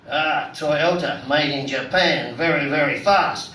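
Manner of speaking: low, slow imitated tourist, lightly done; mock Japanese passenger. Taxi driver mimicking his Japanese passenger, a light low mock voice. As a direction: drop the voice and plod through it like the passenger.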